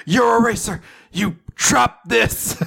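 hammed-up gallant voice; mock suave hero. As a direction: play the dashing rescuer. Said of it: "He's like".

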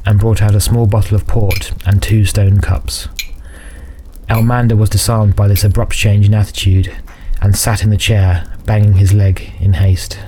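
measured fantasy audiobook narration; story narration. A narrator's reading. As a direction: narrate a dark fantasy tale evenly.

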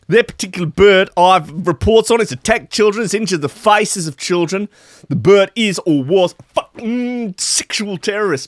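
Ross Williamson's broad Aussie rant. Retold or imitated. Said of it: "Ross Williamson told Nine News Perth".

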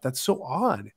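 a quick hushed remark to himself; whispered aside. Real, not acted. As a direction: whisper it under your breath.

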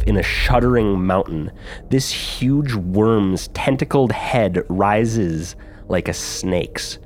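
slow, heavy dungeon-master scene setting; slow ominous narration. A narrator's reading. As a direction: draw out each word like a horror tale.

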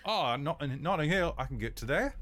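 cabbie voice. Acted. GM voices the cab driver.

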